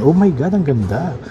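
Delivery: real admiring exclamation, pitch lifted; impressed delight. Real, not acted. Admiring the new watch screen. (humahangang bulalas)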